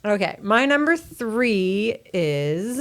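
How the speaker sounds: light impression, stretched out slowly with suspense; slow, teasing mock announcement; imitating Ben. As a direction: drag out the announcement, voice lifting. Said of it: "If I were Ben".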